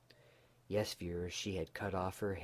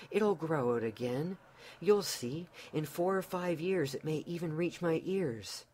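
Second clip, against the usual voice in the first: put-on high, rushed, pleading young wife; anxious pleading wife; 6 semitones higher than usual. Wife pleading with husband over her cut hair, high and anxious. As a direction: beg him to still love you, voice up high. Dolly's anxious plea to Tim.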